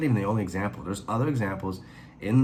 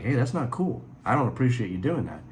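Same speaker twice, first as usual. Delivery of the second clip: raised-pitch, mildly indignant protest; mild angry retort; 4 semitones higher than usual. Retold or imitated. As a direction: tell him off, half-acted. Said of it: "He's angry".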